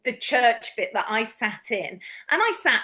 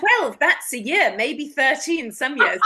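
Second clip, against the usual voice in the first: deadpan joke answer; 3 dB louder, slower than usual. Retold or imitated. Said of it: "And I go".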